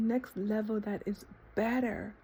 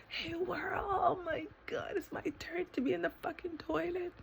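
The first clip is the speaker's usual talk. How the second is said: mock announcing to the world; 5 semitones higher than usual. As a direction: half-whisper an ecstatic announcement to the world. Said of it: "I should be like".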